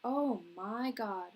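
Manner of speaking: light, drawn-out Irish voice; slow Irish groggy morning-after complaint; Irish accent. Acted. Irishman after a night's drinking greets his coworkers, light Irish accent. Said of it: "the Irish character".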